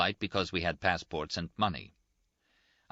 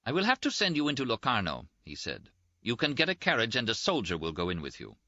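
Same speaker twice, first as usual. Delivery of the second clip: a touch of higher-pitched officialdom; lightly voiced lieutenant; 5 semitones higher than usual. Lieutenant to detained travellers, lightly voiced official. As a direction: hand down instructions in a lightly voiced official manner.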